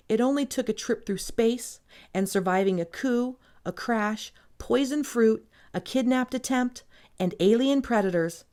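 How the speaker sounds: measured story reading, pausing between phrases; dramatic book reading. Acted. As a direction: read it like a romance novel's closing lines. Reads an excerpt aloud.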